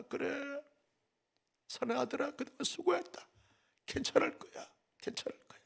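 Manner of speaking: soft, ending in a whisper; mother's whispered comfort. Pretend. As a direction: hold a crying son and soothe him. Mother comforts crying son. (우는 아들을 안고 속삭이는 엄마)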